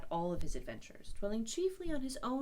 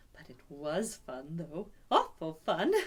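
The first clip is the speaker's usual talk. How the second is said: secret glee; 4 semitones lower, 5 dB louder, slower than usual. Acted. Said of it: "he kept saying to himself".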